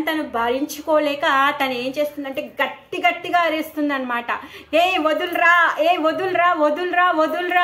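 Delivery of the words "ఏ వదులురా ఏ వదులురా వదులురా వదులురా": high, loud pleading scream to let go; screaming demoness. Acted. Putana screams at baby Krishna to let go, loud high shriek. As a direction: shriek it as the demoness in agony, louder each time. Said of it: "అని చెప్పేసి గట్టి గట్టిగా అరు".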